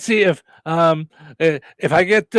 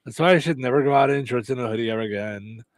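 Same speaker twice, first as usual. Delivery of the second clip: softer, breathy-free mock vanity, hammed-up and low-key; vain hot girl voice; 3 semitones lower, 4 dB quieter than usual. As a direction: purr your own praises like a self-obsessed beauty. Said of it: "I'm gonna talk like this".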